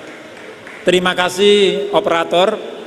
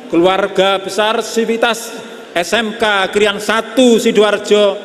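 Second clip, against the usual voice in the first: solemn patriotic poem recital; poem recitation. Acted. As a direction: declaim it like a tribute.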